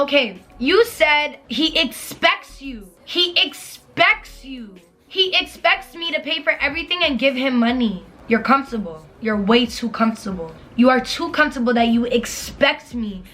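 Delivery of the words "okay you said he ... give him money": mocking quote. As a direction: stretch it out, mocking her words. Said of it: "if you're saying to me like".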